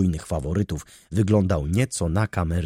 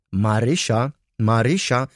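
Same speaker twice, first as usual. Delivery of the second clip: raised, louder repeated summons; calling out; 4 semitones higher, 4 dB louder than usual. A narrator's reading. Baronowa calls her maid away from Leon, calling out. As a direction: call the name insistently from afar.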